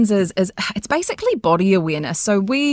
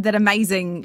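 ordinary talk

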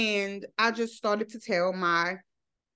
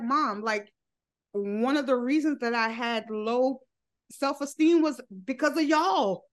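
tearful confrontation; 2 semitones higher than usual. Retold or imitated. Retold confronting mom.

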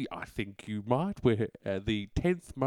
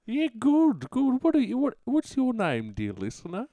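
high, loud eager host voice; excited radio host; 12 semitones higher, 3 dB louder than usual. Acted. Radio host greets caller Caroline, high and eager. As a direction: pump up the enthusiasm.

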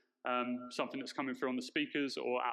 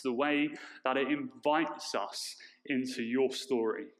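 echoey voice in a large hall; big hall echo; 5 semitones lower than usual. Real, not acted. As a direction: speak into a booming room. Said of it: "I sound a bit echoey up here".

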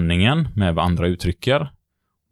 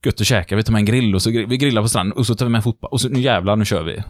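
pumped-up; 3 semitones higher than usual. Retold or imitated. Hyped Sunday plans.

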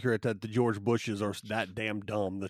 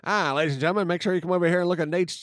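snake oil seller; 4 semitones higher than usual. Pretend. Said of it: "turn into a vaudevillian".

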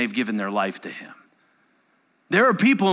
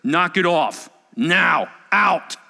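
firm command; 3 semitones higher, 5 dB louder, slower than usual. Acted. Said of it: "And he just goes".

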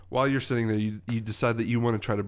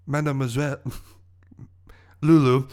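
lightly voiced smug villain with a French accent; theatrical accented villain; 3 dB louder than usual. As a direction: explain your scheme as a French-accented villain.

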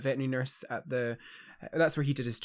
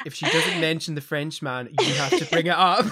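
quoting Andy through laughter, louder; laughing quote; 6 dB louder than usual. Retold or imitated. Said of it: "Andy was like".

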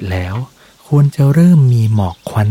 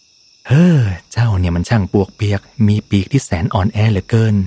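mild mockery. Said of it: "เจ้ากาก็ล้อเลียนเจ้าโมด".

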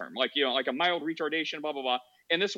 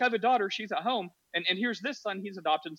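imitating neighbor; 5 semitones higher than usual. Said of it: "And she's like".

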